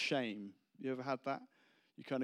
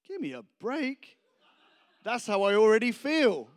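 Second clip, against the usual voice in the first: raised, higher, loud protest; exasperated outburst; 10 semitones higher, 15 dB louder than usual. Acted. Preacher replays his reaction to an unwanted prayer, exasperated. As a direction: burst out in comic exasperation.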